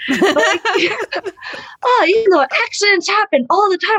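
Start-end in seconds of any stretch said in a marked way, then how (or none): 1.8-4.0 high-pitched feigned-innocent auntie; old lady. Retold or imitated. Old mom excuses her dirty tricks, impersonated. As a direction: imitate grandma brushing off foul play. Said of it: "she's an old lady".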